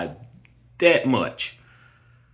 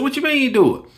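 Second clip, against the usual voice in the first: incredulous; 13 semitones higher, faster than usual. Retold or imitated. Retelling friend who didn't break up.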